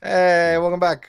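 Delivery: high, loud cheer; excited welcome. Real, not acted. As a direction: greet a returning friend with a delighted call. Greeting a returning friend.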